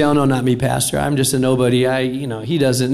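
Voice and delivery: doubting listener. Retold or imitated. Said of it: "You say".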